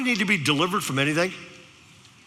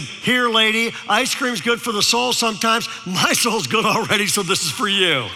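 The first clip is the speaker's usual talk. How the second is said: put-on sweet kid; 3 semitones higher than usual. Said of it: "he said".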